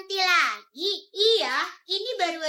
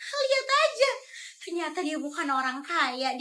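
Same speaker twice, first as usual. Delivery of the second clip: gloating laugh. Acted. Rival gloats over new girl.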